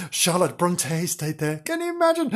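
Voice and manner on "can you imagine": very high breathy wonder; gasping high amazement; awed. Real, not acted. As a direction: marvel at it, eyes wide. Awed at Bronte staying there.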